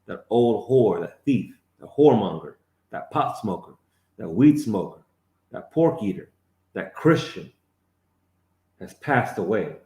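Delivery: punchy preaching list. Acted. Street preacher condemning each old sinner in turn.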